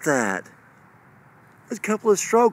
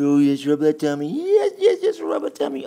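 laughing; 2 semitones higher, 4 dB louder than usual. Real, not acted. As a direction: laugh through the words, going way up. Laughing while rubbing puppy tummy.

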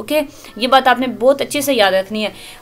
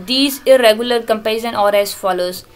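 slow reading aloud; much slower than usual. Shown as a demonstration. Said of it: "reading textbook line slowly".

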